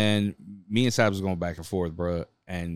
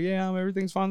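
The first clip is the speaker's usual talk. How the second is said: higher-pitched mock-casual call; raised, put-on everything's-okay voice; mock reassurance; 7 semitones higher, 4 dB quieter, faster than usual. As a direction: act out a falsely casual reassurance. Acting out man on the ledge.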